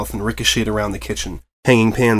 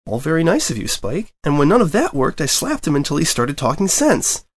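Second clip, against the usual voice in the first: put-on young dragon voice; 5 semitones higher than usual. Spike voiced, Twilight interjecting.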